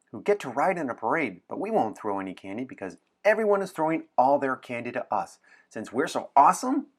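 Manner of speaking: excited pitch. Acted. Anna pitching a wild adventure to William, building excitement.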